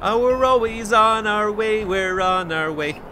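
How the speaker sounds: put-on high, slow old prospector drawl. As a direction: drawl it like a grizzled miner. Why does he sound like an old prospector?.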